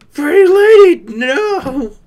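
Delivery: pretty lady yelled high and loud, cracking; loud high wailing protest; anguished wail. Real, not acted. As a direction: cry out in mock despair. Wails the same words.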